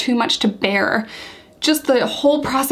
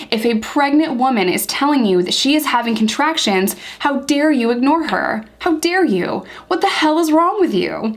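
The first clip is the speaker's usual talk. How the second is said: outraged; 3 semitones higher than usual. Real, not acted. Vlogger confronting jail staff who ignored her, outraged. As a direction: demand how they dare, pitch rising.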